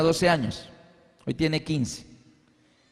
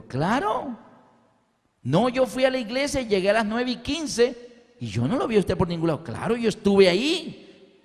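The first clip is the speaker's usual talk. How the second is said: insistent retort; 4 semitones higher than usual. Retold or imitated. Quarrel with friend over church.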